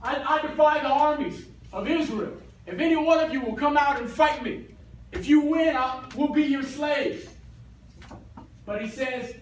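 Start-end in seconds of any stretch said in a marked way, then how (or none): 0.0-7.3 raised, mildly hammed-up giant's challenge; mock screaming challenge. Goliath daring Israel's army to fight, in a mildly raised mock yell. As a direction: call out a battle dare, half-shouted. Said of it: "who's that dude screaming?".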